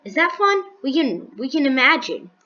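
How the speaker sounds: mock-enthusiastic, lightly sarcastic. Real, not acted. Gamer joking to viewers about imagining stuff, sarcastic. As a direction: feign interest in how fun it is. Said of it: "I'm being sarcastic".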